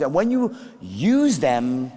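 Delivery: ordinary delivery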